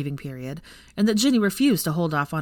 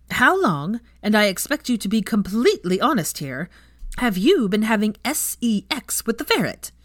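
mock interrogation; 4 semitones higher, 4 dB louder than usual. Ginny interrogates Hermione.

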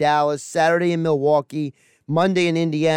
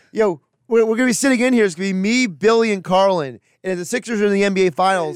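higher-pitched imitation of a co-host; mock Bobby; 3 semitones higher than usual. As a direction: act out the co-host's imagined chatter, teasing. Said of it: "Bobby, he's gonna be like".

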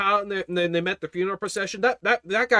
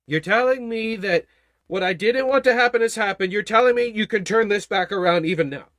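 astonished Jairus; 4 dB louder than usual. Acted. Jairus answers the Lord.

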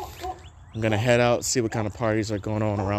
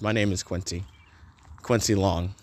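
James Bond style; 4 semitones lower than usual. Pretend. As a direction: purr the name like a lightly voiced secret agent. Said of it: "James Bond style".

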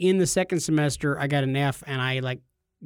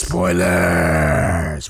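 long, low, louder drawn-out announcement; hammed-up spoiler alert; 12 semitones lower, 4 dB louder than usual. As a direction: announce it in a mock-dramatic low voice. Hams up the spoiler warning.

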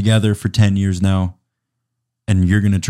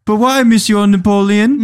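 put-on higher, louder child's voice pleading; a kid begging his father, higher; 12 semitones higher, 4 dB louder than usual. Child begs Napoleon not to leave, in a high pleading voice.

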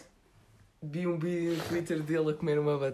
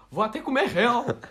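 high, louder mock quote; 8 semitones higher, 5 dB louder than usual. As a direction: play it up as a silly joke. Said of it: "e eu".

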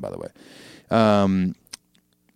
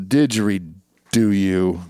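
drawn-out pun; much slower than usual. Acted. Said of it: "don't ever do that again".

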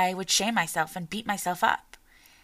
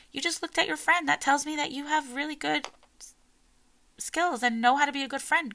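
put-on higher-pitched praise to a child; encouraging praise; 6 semitones higher than usual. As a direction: gently point out what the child did well. Parent praising child in story.

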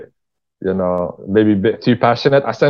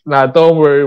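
lightly voiced reply; 4 semitones higher, 5 dB louder than usual. Quoting the platform's reply.

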